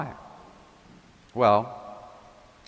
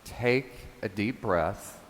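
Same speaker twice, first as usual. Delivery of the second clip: calm reassurance; 5 dB quieter than usual. Retold or imitated. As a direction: ease him down like a calming friend. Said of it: "as if the Lord was saying".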